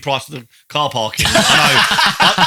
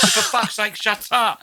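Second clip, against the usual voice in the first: mock irritated snap; 9 semitones higher, slower than usual. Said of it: "You went".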